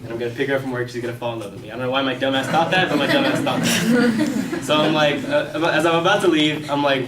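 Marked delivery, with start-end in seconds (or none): 3.0-4.5 much higher, louder, dragged-out repeat; self-mocking squeal. Real, not acted. Comic laughing at his own foolish hope, self-mocking squeal. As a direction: draw it out in a high, incredulous whine.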